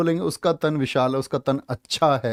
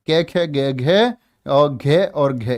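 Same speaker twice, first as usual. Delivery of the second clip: slow consonant demo; 3 dB louder, slower than usual. Shown as a demonstration. Teacher sounding out consonants slowly.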